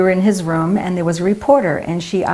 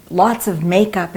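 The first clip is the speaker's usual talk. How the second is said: usual speaking voice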